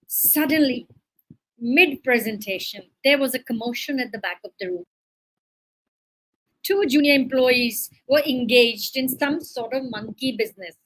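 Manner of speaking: measured read-aloud narration; teacher narrating an example story. A narrator's reading.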